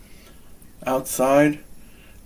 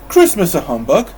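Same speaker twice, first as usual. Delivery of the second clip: louder, rising disbelief; shocked cry; 3 semitones higher, 6 dB louder than usual. Acted. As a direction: cry it out in astonishment. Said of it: "Fred cried".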